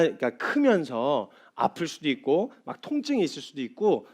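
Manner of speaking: a hint of a soothing dad at dawn; father calming his son in the next room, lightly soft; comforting father. Father comforting crying son at night.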